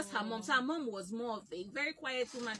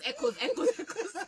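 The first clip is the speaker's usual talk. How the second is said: echoing call; 6 semitones higher, 5 dB louder than usual. Shown as a demonstration. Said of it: "call your name and it echoes".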